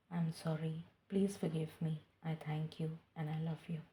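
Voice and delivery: the third repetition of the mantra, whispered; whispered prayer. Acted.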